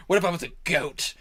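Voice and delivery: lightly hammed-up villain, dwelling on the words; Frieza. Villain asking what if he was a goat, hammed-up. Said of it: "in Martin's audition for T F S to play Frieza".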